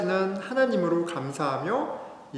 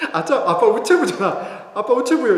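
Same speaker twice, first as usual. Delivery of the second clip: put-on laughing child's voice; 7 semitones higher, 9 dB louder than usual.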